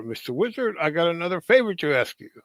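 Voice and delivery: cartoon turtle. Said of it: "he's knocking on the door".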